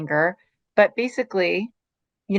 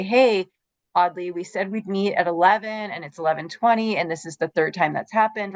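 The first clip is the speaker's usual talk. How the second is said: assertive. Shown as a demonstration. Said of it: "So that's assertive speech".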